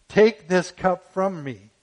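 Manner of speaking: loud and slow, pleading each word; anguished cry. Retold or imitated. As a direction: beg it out loud, stretching it. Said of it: "And he cried out".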